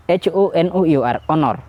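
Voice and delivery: slow spelling, then the word "ᱚᱱᱚᱨ". Shown as a demonstration. Teacher shows silent H in "ᱚᱱᱚᱨ". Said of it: "ᱮ pronunciation ᱚᱠᱟ ᱠᱷᱚᱱ".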